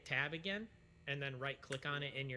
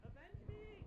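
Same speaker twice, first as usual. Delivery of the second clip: overacted death scene; 13 dB quieter, slower than usual. Dramatic last words after dying.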